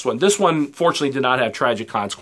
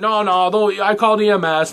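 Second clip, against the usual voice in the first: mocking cop voice; 8 semitones higher, 3 dB louder than usual. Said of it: "The cop's like".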